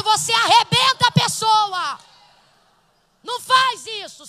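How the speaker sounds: loud, fiery preaching that scolds the congregation; a preacher rebuking her church at full volume; full-force preaching. Acted. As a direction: thunder it from the pulpit like a scolding pastor.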